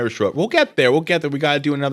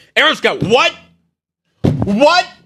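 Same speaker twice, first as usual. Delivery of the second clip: sudden, shrieking, very high, loud yell; 12 semitones higher, 6 dB louder than usual. Calling out someone's name and asking what, yelling. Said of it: "I'm sorry for yelling".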